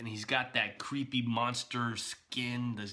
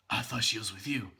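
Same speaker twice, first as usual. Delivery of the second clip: imitating a modulated, machine-like Batman; flat robotic growl from inside a suit; mechanical Batman voice; faster than usual. Quoting Batman's trailer answer to Superman, in mock mechanical voice. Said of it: "that heavy modulated, almost mechanical voice".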